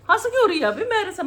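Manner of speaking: high, loud mock-indignant why are you laughing; loud amused exclaim. Real, not acted. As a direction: call it out high and loud at the giggler. Repeats question much louder. (ऊँची, ज़ोरदार नकली नाराज़गी)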